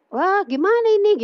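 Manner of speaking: high-pitched retold "oh no, what now"; dismayed exclamation. Acts out person losing a sandal.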